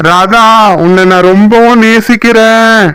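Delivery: high, calling-out love confession; shouted declaration. Acted. Man declares love to Radha, calling out. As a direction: cry out the love, pitched high. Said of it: "ஏன் கத்தி சொல்றீங்க?".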